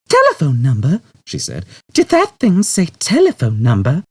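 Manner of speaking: startled. A narrator's reading. Trillian startled by the computer, alarmed. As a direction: gasp it out in shock.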